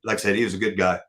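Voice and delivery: soft, choked-up voice after tears; quietly getting the words out through tears; teary-eyed. Real, not acted. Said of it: "Sorry, I'm getting teary-eyed".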